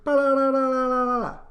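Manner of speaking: one long high even ba-da-da-da; flat monotone. Shown as a demonstration. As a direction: drone it on one pitch. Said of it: "They don't change their intonation".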